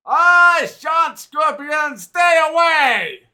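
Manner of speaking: high, loud cry to keep the scorpion back; frightened shout. Acted. Unseen villager screams at the scorpions, loud frightened shout. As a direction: yell it out in terror. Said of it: "the shouting began again".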